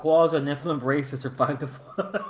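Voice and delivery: half-laughed read of "Koalas are Nephilim race that survived the flood"; reading while laughing. Real, not acted. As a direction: read the chat line through a chuckle. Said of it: "What? I missed that".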